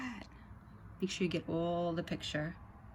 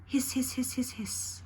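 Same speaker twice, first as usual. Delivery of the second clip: snake hiss; 6 semitones higher than usual. Pretend. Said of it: "And the snake is saying".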